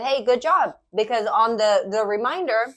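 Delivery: talking through a mouthful of cookie; words round a bite of cookie; mouth full. Real, not acted. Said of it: "sorry for eating with my mouth full".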